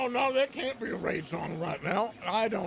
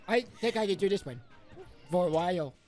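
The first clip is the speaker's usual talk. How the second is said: funny voice; 4 semitones higher than usual. Acted. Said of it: "I'm trying to do voices".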